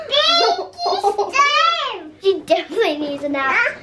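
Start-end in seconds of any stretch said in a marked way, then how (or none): 0.1-2.1 very drawn out. Pretend. Pretend play with doll.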